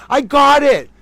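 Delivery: high, loud burst of triumph; triumphant shout. Real, not acted. Host finally manages a hard name, triumphant shout. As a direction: yell it out, thrilled to have managed it.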